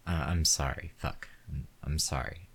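frightened man apologising to the armed woman; nervous pleading. Acted. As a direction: talk her down, scared and rushing. Pleading, backpedalling under threat.

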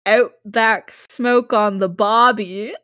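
put-on slow, laughing Australian accent; hammy Aussie, drawn out. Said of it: "equally shitty Australian accent".

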